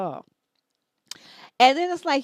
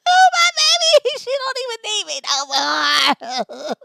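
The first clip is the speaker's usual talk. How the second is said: very high, loud, slow hammed-up crying shout; mock wailing; 10 semitones higher, 9 dB louder, slower than usual. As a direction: bawl like a heartbroken mom. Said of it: "It was terrible".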